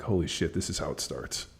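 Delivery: low, quiet aside to himself; thinking aloud, pitch and volume falling away; inner thought. Retold or imitated. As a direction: drop to a hushed, sinking realization. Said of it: "in the back of my head".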